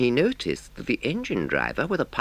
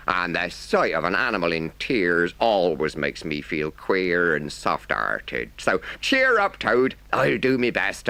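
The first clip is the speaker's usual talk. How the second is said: grave then kindly driver. Acted. Driver judging Toad gravely then promising help, lightly voiced. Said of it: "looked very grave and said".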